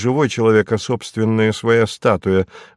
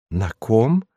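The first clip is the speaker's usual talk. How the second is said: ordinary delivery, nothing marked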